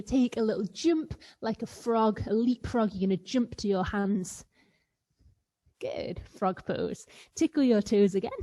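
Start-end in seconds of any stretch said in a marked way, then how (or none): 5.8-7.1 whisper. Real, not acted. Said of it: "whispered cue in kids yoga".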